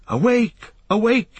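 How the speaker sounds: high, ringing wake-up call; urgent, high-pitched cry. A narrator's reading. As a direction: call out loudly to rouse sleeping companions. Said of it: "he cried".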